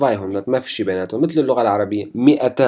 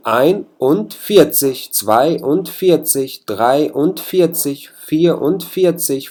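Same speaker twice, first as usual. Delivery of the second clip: very slow, ein und vierzig said as separate parts; split into syllables; 4 semitones higher, much slower than usual. Shown as a demonstration. Teacher showing students how German numbers are built, slowly. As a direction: lay out each piece of the number slowly. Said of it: "ما بتلفظوها بهالشكل المقطع".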